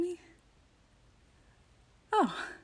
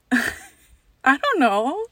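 laughing through the words; giggling and unsure; 6 semitones higher, 9 dB louder, much slower than usual. Real, not acted. Laughs at own code word.

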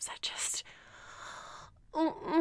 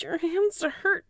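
distressed protest; 3 semitones higher, 4 dB louder, slower than usual. Acted. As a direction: cry out against being uncovered. Continued distress.

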